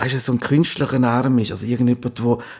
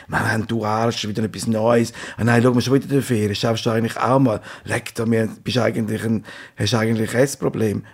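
envious grumbling; 3 semitones lower than usual. Acted. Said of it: "so schaut man doch Instagram an".

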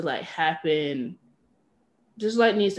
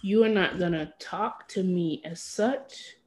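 slow, quiet and measured, putting a foot down; firm refusal; 5 dB quieter, slower than usual. Acted. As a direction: draw it out softly and firmly.

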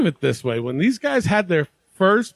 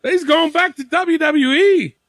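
raised, excited hosting voice; being loud; 4 semitones higher than usual. Real, not acted. Host opening the discussion to his fellas, being loud. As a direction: project it like an over-eager host. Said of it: "I don't know why I'm being loud".

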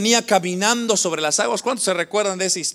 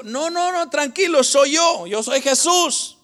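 higher-pitched storytelling voice, lightly acted; Jesús; 6 semitones higher than usual. Jesus answers the frightened disciples, raised pitch, lightly acted. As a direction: lightly voice someone telling others to stay calm. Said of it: "Y dijo".

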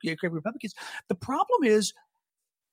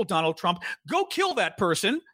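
mock public command. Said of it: "on my Twitter account of eighty million people".

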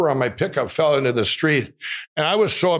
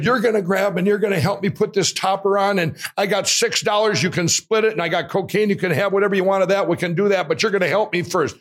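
retold yelling; 5 semitones higher than usual. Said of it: "I really yelled at him".

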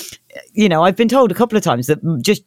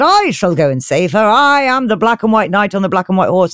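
lightly hammed-up knight's proclamation; a touch of grand knightly declaration; heroic knight; 2 semitones higher than usual. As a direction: announce yourself like a storybook hero. Knight proclaims himself to the king.

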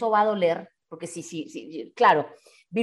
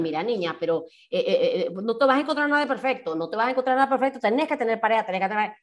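nagging relative; faster than usual. Retold or imitated. Quoting nagging family.

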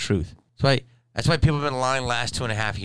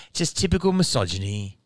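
mock English woman's complaint; attempted English accent. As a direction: imitate her English accent, landing off-target toward Aussie. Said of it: "she had a little accent".

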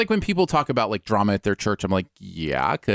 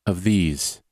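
slow, deep show-title announcement; announcer voice; 6 semitones lower, slower than usual. Acted.

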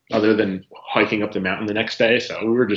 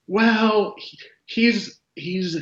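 higher, sheepish voice for the host; 8 semitones higher, much slower than usual. Retold or imitated. Voicing the host's reply.

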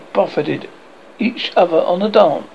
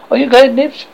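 eager question; 8 semitones higher, 5 dB louder than usual. A narrator's reading. Wendy polling the boys.

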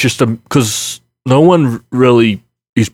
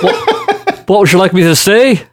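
playful Scottish accent, a little higher; 5 semitones higher than usual. Shown as a demonstration. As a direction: show off a picked-up Scottish lilt on request. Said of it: "can we get a sneak peak".

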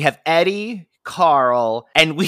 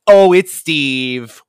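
drawn-out disappointed sigh; hammed-up letdown; slow mock sitcom groan; 6 dB louder, much slower than usual. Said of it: "just a throwaway gag".

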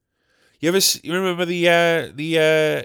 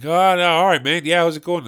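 suddenly louder, put-on matey hello; mock friendly greeting; 2 semitones higher, 3 dB louder than usual. Man greeting someone he wanted to avoid, mock friendly. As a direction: cover dread with a breezy greeting. Outward greeting masking the dread.

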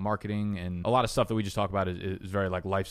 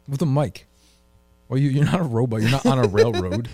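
higher and louder impatient command; loud sharp voice; 4 semitones higher, 6 dB louder than usual. Real, not acted. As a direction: snap the order at him. Exasperated order to move mic.

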